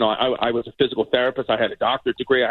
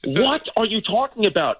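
retold disbelief; 8 semitones higher than usual. Frightened teen answering his father.

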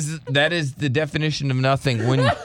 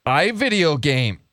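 slow, simple-minded caricature; mocking slow-talker impression; mimicking co-worker; slower than usual. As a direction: announce it in stretched, halting bits. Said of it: "That's how you sound".

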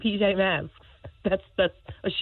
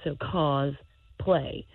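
slowly spelled out; much slower than usual. Real, not acted. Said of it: "I can break it down for you".

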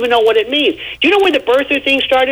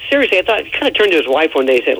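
normal talking voice

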